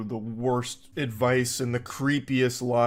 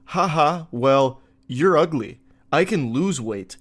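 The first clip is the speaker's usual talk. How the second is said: playful; 2 semitones higher, 5 dB louder, slower than usual. Retold or imitated.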